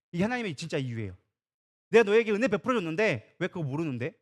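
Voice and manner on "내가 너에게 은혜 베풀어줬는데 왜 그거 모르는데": sulky God. Acted. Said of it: "속된 말로 삐졌어".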